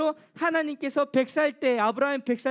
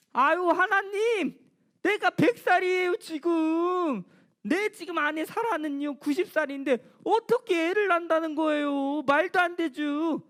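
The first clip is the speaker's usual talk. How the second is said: mocking disbelief; 4 semitones higher than usual. Abraham scoffing at God about a child at a hundred. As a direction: laugh off God's promise as absurd. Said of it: "하나님에 대해서 비웃은 거예요".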